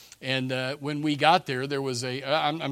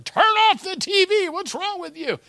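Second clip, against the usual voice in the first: high, loud angry shout; exasperated yell; 9 dB louder than usual. Retold or imitated. People yelling at the angel in the sky, angry. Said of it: "Can you hear people yelling".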